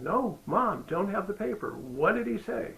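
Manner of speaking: pressing mom for the answer; impatient son. Retold or imitated. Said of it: "And I said".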